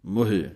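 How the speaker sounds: ਮੋਹੇ with a clear he sound; ਮੋਹੇ pronounced mo-he; Gurbani pronunciation. Shown as a demonstration. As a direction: say ਮੋਹੇ as mo-he, he with sihari. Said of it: "ਹਾਹੇ ਸਿਹਾਰੀ ਦੀ ਆਵਾਜ਼ ਇਸੇ ਤਰ੍ਹਾਂ ਦੇਣੀ ਹੈ".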